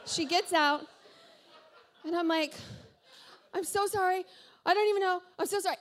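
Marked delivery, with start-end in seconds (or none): 3.5-5.8 high-pitched pleading apology; acted apology. Acting out frantic apology after crash.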